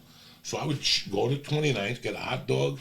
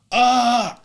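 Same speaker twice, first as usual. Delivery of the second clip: startled cry; 13 semitones higher, 6 dB louder than usual. Retold or imitated. Ladder crashing down.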